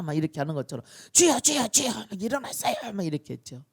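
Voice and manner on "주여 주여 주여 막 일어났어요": high, loud repeated plea; acted frantic disciples' cry; frantic waking cry. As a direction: shout in panic to shake someone awake. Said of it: "막 흔들어 깨울 때".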